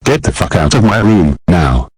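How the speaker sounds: a lightly voiced brat throwing a fit; bratty tantrum. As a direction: son cursing out his mother, tantrum. Boy cursing at mother.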